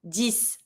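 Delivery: dix said as "deess"; French dix with the X as s. Shown as a demonstration. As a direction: end dix on an s sound, no ks. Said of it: "like a S".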